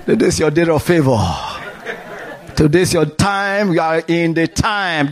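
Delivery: laughing through the words; laughing joyfully. Real, not acted. Preacher declaring favor to the congregation, laughing. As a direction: let joy laugh through it, quick.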